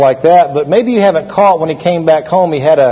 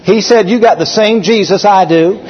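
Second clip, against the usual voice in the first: stern rebuke; 4 semitones higher than usual. Retold or imitated. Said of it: "he snapped at him".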